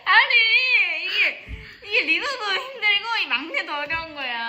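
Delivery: high, whiny laughing protest; laughing lament. Real, not acted. Member saying both roles are hard, high laughing lament.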